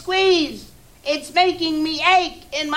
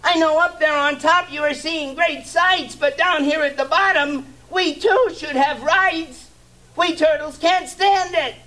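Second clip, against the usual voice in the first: much higher, strained pleading turtle; groaning plea. Acted. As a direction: beg the king through the pain. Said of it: "groaned Mac".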